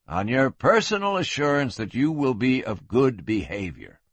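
level, deadpan sheriff; poker-faced. Acted. Sheriff freeing a drunk on his promise, poker-faced. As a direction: give the condition with no sign of feeling. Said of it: "poker-faced".

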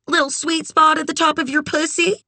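high, insinuating follow-up question; brassy, frank friend. A narrator's reading. Red explains to a cringing Kit, brassy and frank.

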